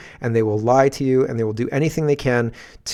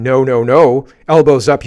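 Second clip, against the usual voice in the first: mocking the government; 7 dB louder than usual. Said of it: "they're saying".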